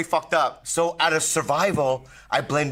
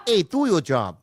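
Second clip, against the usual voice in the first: failed Boston accent; 5 semitones higher, slower than usual. Shown as a demonstration. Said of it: "that sounds Asian".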